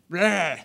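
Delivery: imitated grumble of a fed-up team; mock disgusted "bleh". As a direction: groan out a short "bleh". Voicing the team's disgruntled mood.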